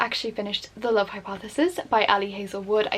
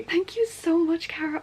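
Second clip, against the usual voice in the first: emotional whispered thanks; 8 semitones higher than usual. Real, not acted. Thanking Cara for the gift, emotional whisper. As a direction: breathe out thanks, moved.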